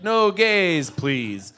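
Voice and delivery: mock-polite refusal; kind of politely. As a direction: turn the ban into a courteous request. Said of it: "but kind of politely".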